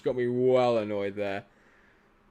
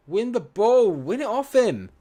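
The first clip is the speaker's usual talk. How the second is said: much higher, loud pleading; desperate urging; 11 semitones higher, 8 dB louder than usual. Real, not acted. Streamer screaming at his players to win the ball, desperate. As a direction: beg your team to win it back.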